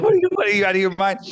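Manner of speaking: high, loud, incredulous yelling; furious father's shout. Retold or imitated. Father yelling at son for quitting his company, high loud outrage.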